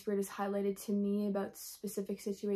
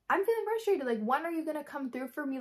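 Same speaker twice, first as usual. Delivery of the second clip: pitched much higher, pleading in exasperation; exasperated plea; 5 semitones higher than usual. Retold or imitated. Frustrated believer asking Jesus when he'll come through, exasperated and high. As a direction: whine it up to Jesus, fed up with waiting.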